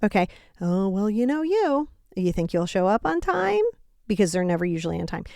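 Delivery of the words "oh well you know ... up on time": passive aggressive. Retold or imitated. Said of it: "you don't wanna be passive aggressive".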